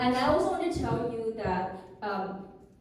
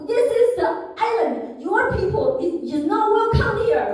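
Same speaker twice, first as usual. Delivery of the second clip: slow, loud, menacing warning; threatening; 8 semitones higher, 6 dB louder than usual. Retold or imitated. Knife-waving vendor tells her she is not welcome, menacing. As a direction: growl it out with the knife raised. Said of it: "Like, very scary".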